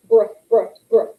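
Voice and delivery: "Bruh" soft, not harsh. Shown as a demonstration. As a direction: model a gentle br. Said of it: "It's a softer sound".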